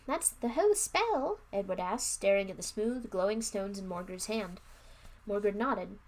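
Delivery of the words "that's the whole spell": high, slow, disbelieving question; surprised. A narrator's reading. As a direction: ask in slow amazement. Edward surprised at simple spell.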